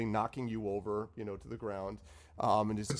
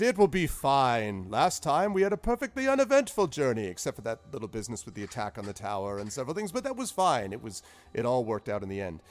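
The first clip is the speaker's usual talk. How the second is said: cheerfully gloss over disaster; breezy wizard reassurance; 5 dB louder, faster than usual. Acted. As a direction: wizard reassuring nervous player. Zephyros reassuring.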